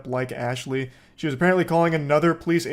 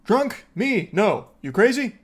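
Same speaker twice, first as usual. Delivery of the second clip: imitating Ashley, higher pitch, indignant sober act; mock sober act; 3 semitones higher than usual. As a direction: play the drunk woman insisting she's sober. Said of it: "putting on a strong show of sobriety".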